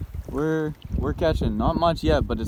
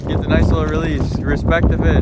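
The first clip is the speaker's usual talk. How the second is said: shaky voice; 2 semitones higher, 8 dB louder than usual. Real, not acted. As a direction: voice jolting from shaking. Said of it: "sorry for the shaking".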